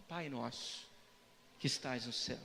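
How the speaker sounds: low, soft, reverent recital; hushed prayer. Acted. Jesus teaching disciples how to pray, hushed prayer. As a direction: drop right down and pray it quietly.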